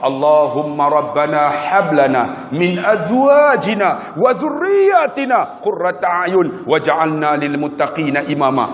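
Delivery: slow chanted Arabic prayer; reciting the prayer for the congregation, slow; prayer recitation. Acted. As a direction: recite it slowly and devoutly.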